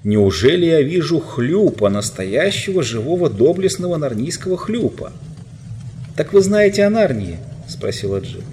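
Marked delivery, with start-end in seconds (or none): 0.0-5.1 high, louder amazed cry; joyful surprise. A narrator's reading. Knight recognizes the marsh-wiggle, delighted surprise. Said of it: "воскликнул он". 6.2-7.4 much higher, louder astonished question; excited question. A narrator's reading. Jill asks the prince about Narnia, astonished.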